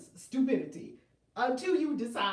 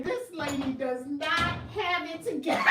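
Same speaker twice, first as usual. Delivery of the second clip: mock shout; 5 semitones higher, 5 dB louder than usual. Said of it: "Someone who does not know me would say".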